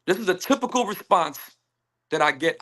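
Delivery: emphasize "typical" within the sentence; stress on "typical". Real, not acted. Man describing the response he gets, "typical" emphasized. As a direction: lean on the word "typical". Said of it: "I emphasize the word typical".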